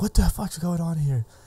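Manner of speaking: play-acted furious, high, fuming outburst. Retelling an angry dad confronting partygoers: imitating a fuming dad. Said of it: "the dad's, like, fuming".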